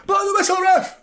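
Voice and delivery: a mock cry to start the second half; impatient shout. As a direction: yell it like a fan desperate for kickoff. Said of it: "It's like".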